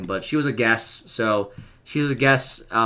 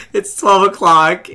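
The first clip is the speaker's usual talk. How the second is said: excited; 7 semitones higher, 7 dB louder, slower than usual. Real, not acted.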